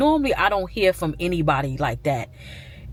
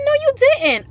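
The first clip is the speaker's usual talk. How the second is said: imitating aunt; 4 dB louder than usual. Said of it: "She said".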